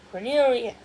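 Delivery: fairy king shouting for his son; king's shout. A narrator's reading. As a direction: shout him home. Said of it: "the king shouted".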